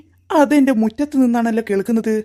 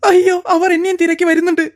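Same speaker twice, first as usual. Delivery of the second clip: frightened cry for help; 5 semitones higher than usual. Acted. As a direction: beg to be saved in fright. Hiding man cries for help.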